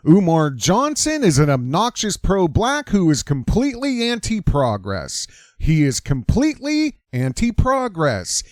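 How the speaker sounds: a light mock of a preacher's rhythmic, repeating cadence; mimicking Umar's cadence. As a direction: hammer the repeated lines like a rally speech, lightly parodied. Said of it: "let me give you a little taste of Umar".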